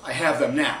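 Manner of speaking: loud, urgent radio report; walkie-talkie official. Retold or imitated. Airport guy reporting passengers by walkie-talkie, loud and official.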